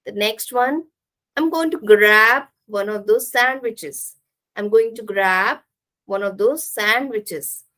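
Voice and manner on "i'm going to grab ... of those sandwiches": "grab" and "sandwiches" stressed, small words squeezed; sentence rhythm. Shown as a demonstration. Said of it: "this is how we create rhythm".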